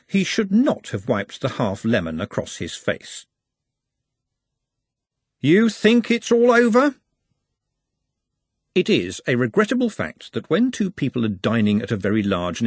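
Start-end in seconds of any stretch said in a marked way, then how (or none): 5.4-6.9 high, slow, strange voice; a voice from the dark, taunting; slow high menace; menacing character voice. A narrator's reading. Menacing line in the story.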